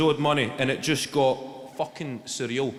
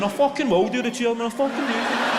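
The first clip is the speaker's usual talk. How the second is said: lightly voiced chairman, loud and laughing; a hint of a defiant chairman taking the dare; mock defiant chairman; 5 semitones higher, 5 dB louder than usual. Daring each other, chairman impression.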